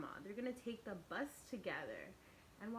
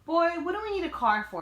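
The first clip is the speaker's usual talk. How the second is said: Nana's exclamation; 7 semitones higher, 17 dB louder than usual. Acted. Nana scolds CJ.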